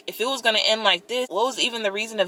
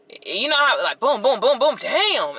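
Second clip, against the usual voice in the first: laughing; 6 semitones higher, 4 dB louder than usual. Real, not acted. Laughing at the pile-up.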